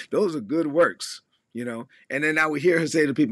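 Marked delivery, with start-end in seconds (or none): 0.1-1.2 imitating mom. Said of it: "my mom will say".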